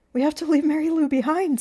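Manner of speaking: high, loud, pained urging; urgent insistence. A narrator's reading. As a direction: insist there is no time. Urgently telling Sam to flee.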